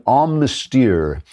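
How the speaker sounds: mock French pronunciation of a brand name; drawn-out, hammy French accent; bad French accent. Shown as a demonstration. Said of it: "that's my bad French accent".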